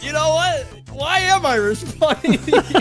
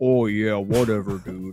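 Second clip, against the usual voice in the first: talking in a much lower-pitched voice; 10 semitones lower, 4 dB quieter than usual. Speaker recounts the clip viewers mocked as his high voice: talking in a lower tone. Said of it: "I was literally just talking in like a lower tone".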